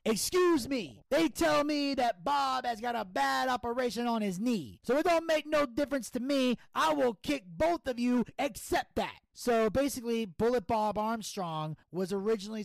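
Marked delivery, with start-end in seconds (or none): 0.0-9.2 Patterson impression. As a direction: ham up the old-school promo. Impersonating Patterson on the mic.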